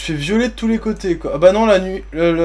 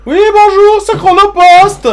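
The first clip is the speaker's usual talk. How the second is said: delivery man voice; 13 semitones higher, 10 dB louder, slower than usual. Pretend.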